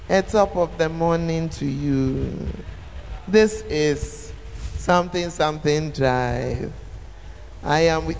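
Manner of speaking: slow, droning radio greeting; boring radio host. Retold or imitated. Preacher mimicking a dull morning radio host. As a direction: drag out each word like a dull DJ. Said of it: "he's talking exactly like this".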